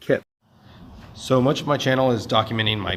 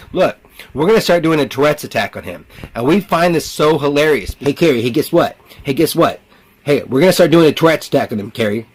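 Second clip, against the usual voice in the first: higher, excitable heckling voice; taunting voices; 4 semitones higher, 4 dB louder than usual. Pretend. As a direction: play a gleeful intruder heckling through him.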